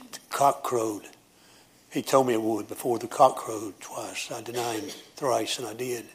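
a hushed, ashamed apostle; remorseful Peter. Acted. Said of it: "Peter standing up, maybe being the spoke, said".

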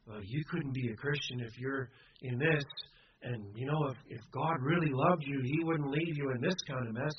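low, hushed voice of the enemy; imitated whispering tempter. The enemy sowing doubt in a believer's ear, mock whispering. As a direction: drop low and soft, an insinuating inner voice. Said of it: "we start to hear the whispering voice".

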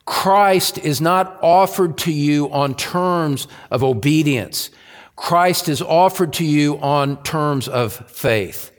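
slow, deliberate phrasing with spaced-out words; going slowly. Real, not acted. Preacher laying out a key point for the congregation, slowly. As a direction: take it slowly, one phrase at a time. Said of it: "we're gonna go slowly here".

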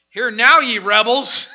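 loud, slow, booming rebuke; slow booming prophet's rebuke; Moses thundering. Acted. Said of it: "I love it. I can just imagine him".

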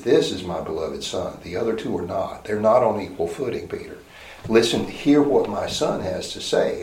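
a grave, quiet correction from above; voice of God. Pretend. God the Father correcting Peter.

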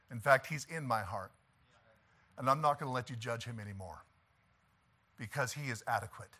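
low, softened, resolute reply; quiet firm rebuke. Acted. Acted calm, firm reply to critics.

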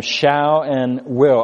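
slow, each word weighed: "shall" and "will"; stress on shall and will. Shown as a demonstration. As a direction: lean slowly on "shall" and "will". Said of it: "I underline those words".

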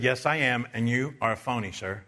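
politely cutting; calm, courteous put-down. Retold or imitated. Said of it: "I said very politely".

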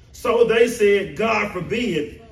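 God forbid drawn out slowly, each word weighted; slow emphasis. Shown as a demonstration. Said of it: "bring out the emphasis strongly".

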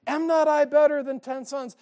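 husband boasts to his crying wife, hammed-up; boastful husband. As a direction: puff up like a proud husband. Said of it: "And he's like".

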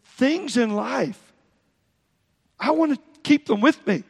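Solomon voiced. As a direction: lightly preach it as King Solomon. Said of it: "Solomon said".

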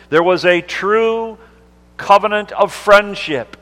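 fervent sermon delivery; preaching. Acted. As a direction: preach it out to the congregation. Preacher builds to heightened delivery.

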